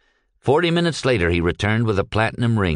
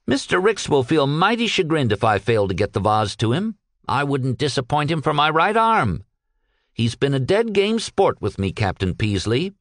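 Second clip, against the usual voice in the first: a little higher, earnest character voice; lightly voiced earnest Peck; 4 semitones higher than usual. Peck explaining his loyalty to the captain, lightly voiced and earnest. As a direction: loyal underling explaining himself.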